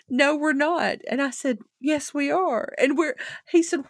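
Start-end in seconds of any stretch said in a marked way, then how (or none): 0.1-1.0 mock stern Daddy. Father denies being Russian. 1.8-2.7 excited insistence. Retold or imitated. Retold back-and-forth with father.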